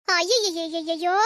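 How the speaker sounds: long drawn-out slow lament of aiyo; mock wail. Mother-in-law wails at what she finds, slow and drawn. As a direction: wail it out slowly, hammed-up grief.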